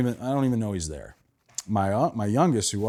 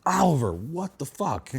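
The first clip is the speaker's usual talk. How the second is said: higher, exasperated mock outburst; 6 semitones higher than usual. Dad woken by son's kick, exasperated. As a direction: sound fed up but amused. Dad punched in face by son.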